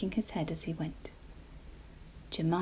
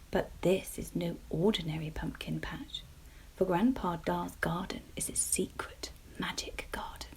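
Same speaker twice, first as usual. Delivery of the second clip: whispered storytelling. A narrator's reading. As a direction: whisper the tale gently.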